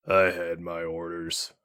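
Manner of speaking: low, slow sullen grumble; grumbling. Acted. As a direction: grumble it, looking away. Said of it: "he grumbled".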